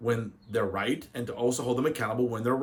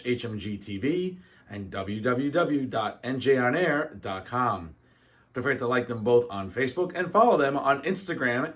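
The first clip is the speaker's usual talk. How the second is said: show sign-off. Acted. Host closing the weekly show for viewers, upbeat outro read. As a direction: wrap up the program like a TV host.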